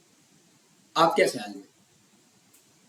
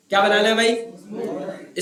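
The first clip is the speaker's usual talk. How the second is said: drawn-out question; much slower than usual. Shown as a demonstration. Teacher drawn-out prompt.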